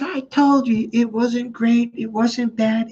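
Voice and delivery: high, slow, strained retort; hammed-up high-pitched insistence; mock exasperated husband. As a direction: imitate a man at the end of his patience. Husband losing patience at third asking.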